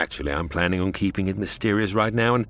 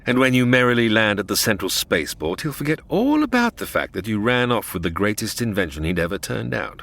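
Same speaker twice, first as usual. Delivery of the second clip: villain Kane. Acted. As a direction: sneer it as a smug space villain.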